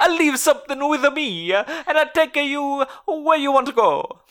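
high cartoon Italian plumber; squeaky video game hero voice; Luigi voice. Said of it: "Say it".

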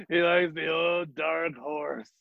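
slow, drawn-out imitation of a misreading; drugged-sounding slow mimicry; heroin-addict drawl. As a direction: draw it out like someone drugged. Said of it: "sound like a heroin addict".

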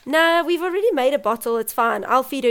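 lightly imitated breezy brush-off; dismissive nurse. Nurse refusing mother a feed, lightly imitated brush-off.

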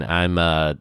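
stuffy nose from a cold; nasal, congested voice. Real, not acted. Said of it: "I'm having a little bit of a cold this week".

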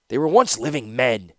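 understated heated hiss. Acted. Prisoner accuses his captor, lightly hissing. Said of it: "hissed Tanos".

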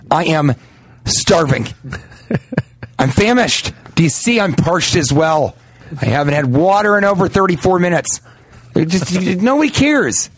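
mock complaining. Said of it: "mocking a hungry complainer".

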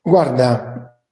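muffled cheap mic sound; talking into a bad microphone; cheap usb mic. Real, not acted. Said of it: "il microfono".

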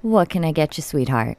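raspy diner waitress; lightly voiced smoky waitress. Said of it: "Walk around with a pack of Camels and ask me what I'm having".

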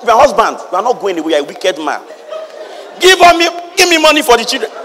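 a hint of a scolding wife, rising high at the end; mock nagging wife. Wife scolding her husband for children's money, mock nagging. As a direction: lightly play the wife demanding money. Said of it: "Oh, he said".

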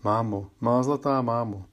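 a mild plaintive cry for her dead mother; girl's lightly sad plea; tearful calling to mother. Acted. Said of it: "Vzdychala po ní a volala".

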